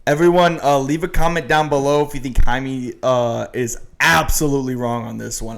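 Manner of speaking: booming at the audience; loud call-out. Real, not acted. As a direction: call out to every viewer. Calling out to viewers.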